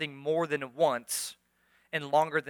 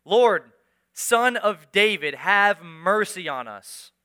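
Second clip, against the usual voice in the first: retold shout; 7 dB louder, much slower than usual. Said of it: "they shouted all the louder".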